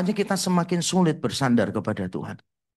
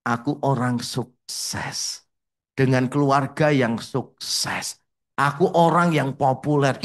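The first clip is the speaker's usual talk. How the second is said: smug boasting; 2 semitones lower, slower than usual. Retold or imitated. Boastful proud self-talk.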